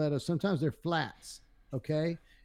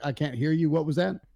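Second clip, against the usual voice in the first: ordinary talk, nothing marked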